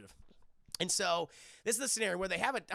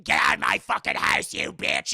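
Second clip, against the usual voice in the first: mock ghost hiss; 4 semitones higher, 13 dB louder than usual. Retold ghost threat.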